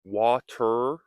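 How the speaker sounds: Water, D-like T; flap T demo. Shown as a demonstration. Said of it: "we can say water".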